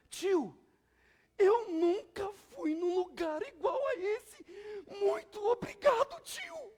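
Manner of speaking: put-on high, loud, slow small-child voice; imitating little boy. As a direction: imitate an awed little boy thanking his "tio". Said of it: "mas foi mais ou menos assim". (imitando voz aguda de menininho)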